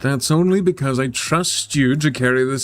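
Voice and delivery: earnest boss persuading a colleague; lightly voiced boss. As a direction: lightly play a boss appealing to trust. Voices boss in visual novel.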